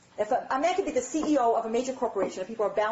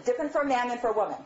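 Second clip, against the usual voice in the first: fast; faster than usual. Shown as a demonstration.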